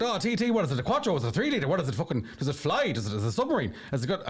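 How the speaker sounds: a hammed-up Cork comedian reeling off questions; bad Cork accent. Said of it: "gonna do the accent wrong".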